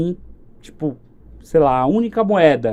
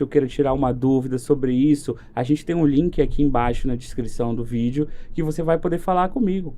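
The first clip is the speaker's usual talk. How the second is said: lower, calm sign-off message to the viewers; closing message read; 3 semitones lower than usual. Acted. Guest to the viewers, a calm lower-pitched closing pitch.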